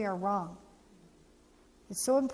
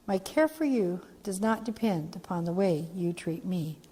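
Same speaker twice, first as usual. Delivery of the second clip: slow soft creed; 4 semitones lower than usual. Shown as a demonstration. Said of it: "Communicating unconditional love".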